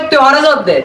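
Chittagong Bengali accent; Chittagonian dialect. Shown as a demonstration. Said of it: "এটা তো আমরা কই".

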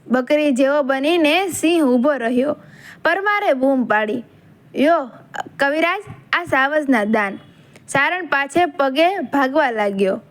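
unhurried story narration with recited verses; folk-tale narration. A narrator's reading. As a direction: tell it like an old legend, line by line.

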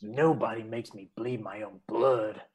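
low, soft and slow deadpan line; movie quote retake. Acted. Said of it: "Do it again once more".

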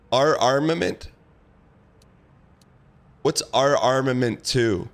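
groggy, sleepy voice; just woke up. Real, not acted. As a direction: sound half-awake and groggy. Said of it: "You sound a bit groggy".

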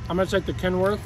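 talking through a mouthful of food; words muffled round a bite; mouth full. Real, not acted. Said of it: "Don't wanna talk with my mouth full".

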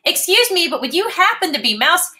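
high, polite little kitten. Acted. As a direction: ask nicely like a small kitten. Max asks politely.

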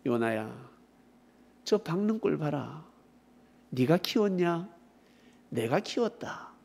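hushed, measured voice of God; God addressing Jonah. Acted. God showing Jonah the vine, calm and grave. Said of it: "그때 하나님께서 요나에게".

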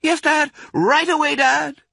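put-on very high, loud child voices; eager fox cubs. A narrator's reading. Two cubs answer Dad's orders, eagerly. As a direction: answer like obedient, keen children. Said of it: "they answered".

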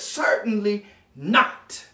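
slow, weighty "Certainly not"; "not" set apart as a firm verdict; emphatic refusal. Acted. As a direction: draw out "Certainly", then land hard on "not". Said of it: "That's the kind of force that's behind that word".

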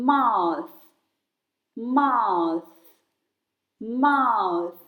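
"mouth" ending with the tongue out for TH. Shown as a demonstration. Teacher modelling "mouth" for children, tongue-out TH. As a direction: say "mouth" clearly, tongue out on the final th. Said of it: "ลิ้นจะต้องออกมา".

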